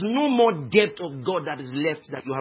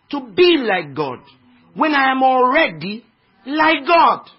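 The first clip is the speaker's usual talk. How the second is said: building from a mild objection to a loud, high challenge; escalating protest; 5 semitones higher, 7 dB louder than usual. Acted. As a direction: push back harder each time until it rings out. Voicing the challenge to the enemy, escalating.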